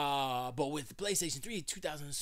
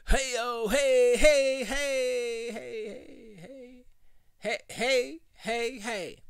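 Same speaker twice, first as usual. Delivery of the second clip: much higher and louder hey calls; loud mic test; 10 semitones higher, 9 dB louder, much slower than usual. Shown as a demonstration. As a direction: blast the compressor with hey. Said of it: "sorry for blowing up your ears".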